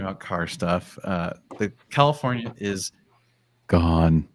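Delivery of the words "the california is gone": sexy voice. Pretend. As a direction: purr the word like a late-night host. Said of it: "I gotta do sexy voice for that".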